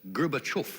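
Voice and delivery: Gorbachev said "Gur-ba-CHOFF"; professor's pronunciation. Shown as a demonstration. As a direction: say Gorbachev with a reduced first vowel and rounded "choff" ending. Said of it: "he says it, it's Gorba".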